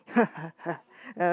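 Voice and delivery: slow, loud warrior's laugh; hearty laugh. A narrator's reading. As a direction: laugh out boldly. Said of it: "孫作はカラカラと笑い".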